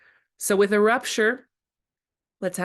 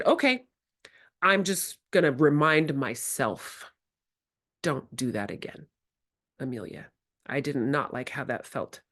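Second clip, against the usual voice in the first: gentle self-reminder; 4 semitones lower than usual. Retold or imitated. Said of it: "So I'm very gently".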